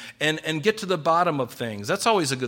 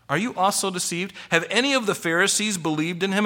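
scornful rebuke; 5 semitones higher than usual. Acted. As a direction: scold them like haughty Pharisees. Pharisees scolding the officers.

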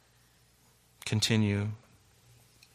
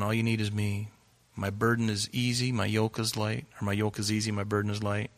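gentle voice of God; 4 dB quieter than usual. Retold or imitated. The Lord's gentle voice.

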